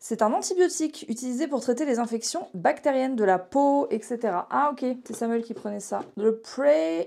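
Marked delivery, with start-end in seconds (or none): 6.2-7.1 French speaker's put-on English accent. Speaker reading out a medicine name: english accent. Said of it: "Pourquoi je prends un accent anglais?".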